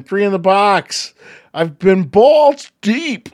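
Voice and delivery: pathetic attempt at a Kiwi accent, slowing at the end; badly faked New Zealand accent. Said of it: "is that your Kiwi accent".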